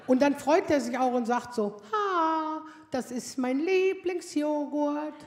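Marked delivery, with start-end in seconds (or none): 1.9-5.1 put-on slow, drawn-out pleased teen; slow, pleased son raiding the fridge; delighted son. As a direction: savour the yoghurt find slowly.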